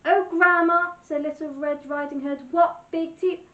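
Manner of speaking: put-on high, loud, wide-eyed little girl; Little Red Riding Hood. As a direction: gasp it out in innocent wonder.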